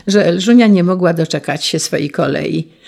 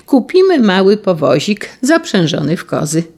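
put-on boy calling out; 3 semitones higher, 3 dB louder than usual. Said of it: "Franio zawołał".

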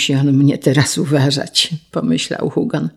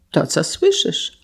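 softer and slow, quite unruffled; slow, quiet, matter-of-fact; calm reply; 5 dB quieter than usual. Acted. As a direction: answer calmly. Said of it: "odparł spokojnie Trevor".

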